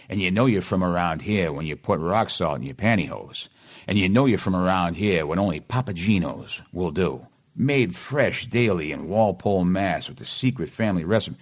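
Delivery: put-on commercial read in a local Boston accent. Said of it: "supposed to sound like I'm from around here".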